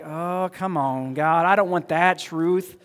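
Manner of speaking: slow, complaining come on; dragging every word in reluctance; drawn-out groan. Retold or imitated. Believer to God, slow whining complaint. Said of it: "you're like".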